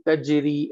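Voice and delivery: तजरी with j gliding straight into ri; no bounce on the j of तजरी; soft, without qalqalah. Shown as a demonstration. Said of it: "इसे हम ऐसे नहीं पढ़ेंगे".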